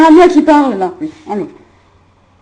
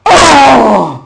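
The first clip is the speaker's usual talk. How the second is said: cri; 2 semitones lower, 6 dB louder than usual. Acted. Cri dans la scène enregistrée.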